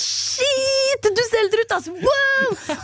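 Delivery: put-on high teen voice, slow on the last words; mocking teen boys. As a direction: stretch the words like the boys did. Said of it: "måten de snakket på var sånn".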